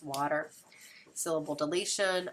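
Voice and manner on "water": blended fast. Shown as a demonstration. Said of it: "say it fast".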